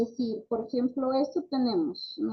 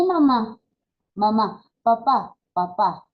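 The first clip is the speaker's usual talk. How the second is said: put-on clear, louder, slow model words for a child to repeat; modelling words for a child; 7 dB louder, slower than usual. Shown as a demonstration. Therapist modelling words for a little child to repeat, louder and slow. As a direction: say each word out for the child to copy. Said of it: "voy a ir diciendo".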